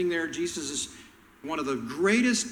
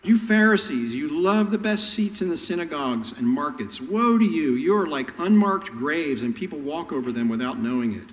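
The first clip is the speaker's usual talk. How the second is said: going off; 4 dB louder than usual. Retold or imitated. Jesus going off on the petty Pharisees, loud and fierce. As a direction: tear into them. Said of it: "He just goes off on them".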